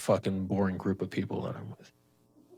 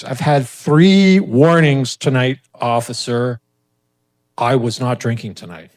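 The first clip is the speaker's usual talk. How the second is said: exasperated loud insistence; 2 semitones higher, 14 dB louder, slower than usual. Retold or imitated. Annoyed driver tells officer warnings.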